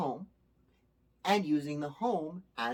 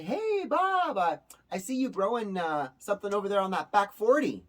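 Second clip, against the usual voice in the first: calling neighbor; 4 semitones higher, 4 dB louder than usual. Retold or imitated. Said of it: "a neighbor will say".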